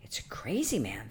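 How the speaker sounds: low, very soft aside to oneself; hushed thought. Acted. Sexton thinking about the stranger inside, hushed. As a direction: murmur it privately under the breath.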